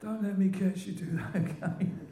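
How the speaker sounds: high old-timer's mock warning; Len B impression. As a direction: imitate an old-timer playfully ticking off his mimic. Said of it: "He was behind me".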